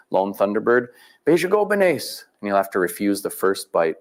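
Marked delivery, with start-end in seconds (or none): 1.2-2.3 name called high and slow, drawn out; ceremonial name call. Shown as a demonstration. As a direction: sing out the hunter's name as you offer the spoon. Ritual offering of food, calling name.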